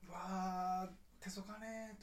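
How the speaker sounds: tired grumble in Kagoshima dialect. Retold or imitated. Chatting with friends who also moved to Tokyo, Kagoshima dialect. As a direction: lightly slip into Kagoshima dialect. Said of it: "一、二年は鹿児島弁".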